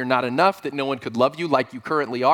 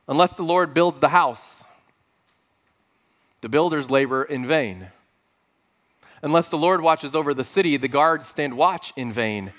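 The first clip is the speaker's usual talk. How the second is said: scripture reading. Acted. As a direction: read the verses with weight, slowing toward the end. Reads Psalm 127 aloud.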